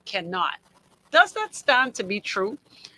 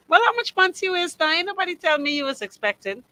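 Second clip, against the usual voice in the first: mock busybody; 8 semitones higher, 3 dB louder, faster than usual. Mocking tactless pregnancy question.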